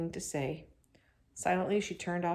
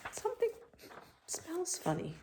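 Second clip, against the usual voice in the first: puzzled; 11 semitones higher, 4 dB quieter than usual. A narrator's reading. Beezus noticing a strange smell.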